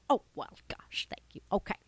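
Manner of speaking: a hint of an eager kids' acting coach; lightly voiced acting coach. Deborah the coach greets the young listeners, lightly voiced and eager. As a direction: play a chipper coach talking to kids. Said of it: "Deborah the coach".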